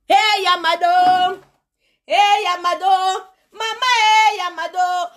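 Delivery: stretched slow calling hey Yamado; drawling "Hey, Yamado" like a flirt; mock call-out. Imitating a man calling to a woman, slow and stretched. Mocking Congolese men calling out.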